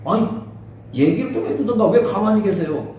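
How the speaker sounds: mildly exasperated appeal to God; acted protest. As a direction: plead for an answer, frustrated. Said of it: "하나님을 향해서 막 항의를 하잖아". (하나님께 답답한 듯 항의하는 흉내)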